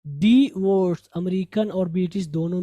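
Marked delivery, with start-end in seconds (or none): 0.1-1.1 डिवोर्स drawn out slowly, dee-VORS; slow teacher's model of डिवोर्स; correct pronunciation. Shown as a demonstration. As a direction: stretch both syllables of डिवोर्स loudly. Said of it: "डिवोर्स्ड है".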